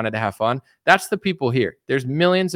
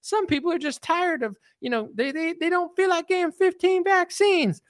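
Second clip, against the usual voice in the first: much higher, soft, timid woman's voice; Robin impression; 3 dB quieter than usual. Robin timidly answering Howard, high soft mock voice. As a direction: gently push back, trying not to upset him. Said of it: "Robin's like".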